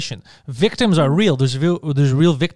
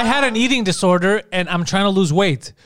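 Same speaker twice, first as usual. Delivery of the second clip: mock whiny complaint; 4 semitones higher, slower than usual. Mocking Demi Lovato's complaint.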